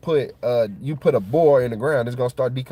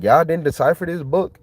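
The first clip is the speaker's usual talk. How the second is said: disbelief; 6 semitones higher than usual. Retold or imitated. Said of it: "I'm like".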